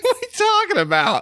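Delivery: high squeaky words through real giggles; giggling. Real, not acted. Co-host giggling, trying to deny it, laughing through words. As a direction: try to talk but the giggles win. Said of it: "can't stop laughing".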